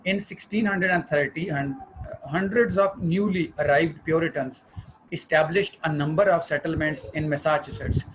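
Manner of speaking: slow reading aloud. Acted. Reads slide text slowly.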